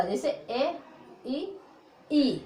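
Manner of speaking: ई stretched long after a short ए. Shown as a demonstration. Teacher showing how ई is stretched. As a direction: draw the ई out long. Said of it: "लंबा करके बोलते हैं ई का".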